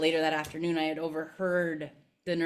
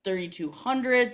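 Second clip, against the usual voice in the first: questioning correction; 6 semitones higher than usual. Retold or imitated. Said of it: "And my grandmother's like".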